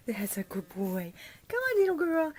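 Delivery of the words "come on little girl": high, louder coaxing; coaxing call. Real, not acted. Owner coaxing a puppy over, high voice. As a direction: call the pup over brightly.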